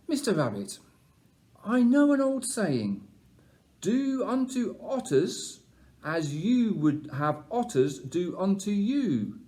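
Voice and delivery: lightly voiced wise old owl. Owl speaks to Rabbit.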